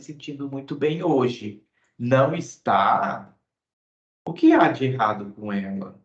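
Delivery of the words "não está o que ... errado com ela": concerned interest. Shown as a demonstration. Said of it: "surpresa ou interesse".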